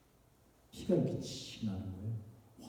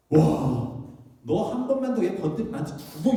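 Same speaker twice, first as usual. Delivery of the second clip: loud, high bully's warning; retold threat; 7 semitones higher, 8 dB louder than usual. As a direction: act out an older boy threatening a little kid. Older boy threatens him, retold. (큰 소리로 으름장 놓는 형 흉내)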